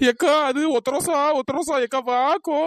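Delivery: frightened, whimpering plea; tearful pleading. Acted. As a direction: beg big sister to come along. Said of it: "அழுதுட்டு இப்படி ஒப்பரை வச்சுட்டு". (அழுதுகிட்டே பயத்தோட கெஞ்சுறது)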